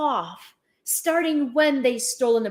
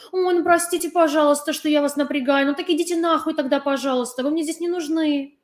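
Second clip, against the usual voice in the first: sarcastic mock apology; faster than usual. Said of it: "mock apology to Russians".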